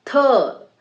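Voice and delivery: th voiced as a syllable, "thuh"; isolated sound demo. Shown as a demonstration. Teacher showing learners a sound, "th" as "thuh". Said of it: "what is the".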